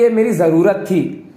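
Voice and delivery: slow, dry sarcasm; sarcastic line. Shown as a demonstration. Teacher contrasting sarcasm with irony, slow dry delivery. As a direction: say it slowly, not meaning it. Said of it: "आप एक sarcastically आप बोलोगे कि".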